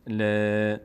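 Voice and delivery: ل with a light, fronted long ae; thin, spread laam. Shown as a demonstration. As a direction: mouth spread sideways on a held ل.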